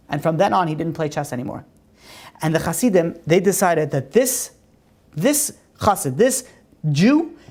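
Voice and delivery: ordinary talk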